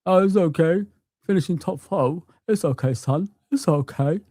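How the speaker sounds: put-on voice of a complacent fan; mock the new fans' reassurance; mocking fan impression. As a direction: imitate a fan soothingly dismissing it, mockingly. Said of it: "And you're telling me".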